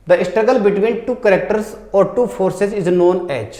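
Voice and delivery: reading the question out word by word; slow question reading. Shown as a demonstration. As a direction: dictate it slowly to the class. Reads exam question aloud. (धीरे-धीरे प्रश्न पढ़ना)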